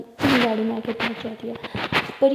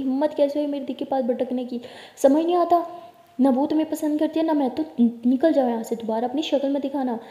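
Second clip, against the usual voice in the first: angry shouting; 2 semitones higher than usual. Acted. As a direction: shout him out of the room in a rage. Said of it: "तो परी बहुत shout कर रही होती है, बहुत ज़ोर से". (गुस्से में ज़ोर से चिल्लाना)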